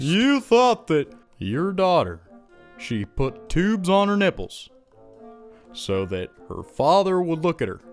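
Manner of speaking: Doctor Phil impression. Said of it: "when I try to do Doctor Phil".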